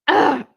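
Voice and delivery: short exasperated "ugh" groan; frustrated groan. Real, not acted. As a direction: let out your annoyance in one grunt. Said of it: "that's my "I fucking hate you" noise".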